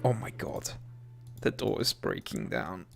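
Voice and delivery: usual speaking voice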